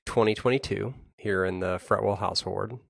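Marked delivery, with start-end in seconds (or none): 1.2-2.8 Boston accent, lightly put on. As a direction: drop the r like a Bostonian. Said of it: "a kind of a Boston accent".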